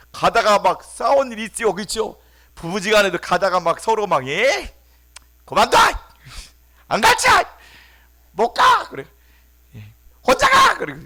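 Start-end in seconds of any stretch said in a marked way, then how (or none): 4.3-10.8 very high, loud angry shouting; shouting quarrel. Acted. Spouse yelling at partner mid-quarrel, shrill shout. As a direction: scream it like a furious spouse.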